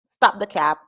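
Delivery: ordinary delivery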